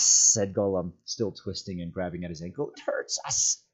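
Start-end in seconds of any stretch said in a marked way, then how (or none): 2.7-3.6 whispered moan. A narrator's reading. Gollum moans.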